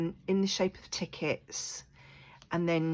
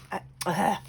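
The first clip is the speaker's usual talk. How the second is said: voice catching; 2 semitones higher, 4 dB louder than usual. Real, not acted. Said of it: "I can't speak today".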